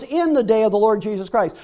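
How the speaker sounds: "in" made the most prominent word of the phrase; stress on IN. Real, not acted. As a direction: lean on "in", then let the rest fall. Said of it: "I emphasize the word in".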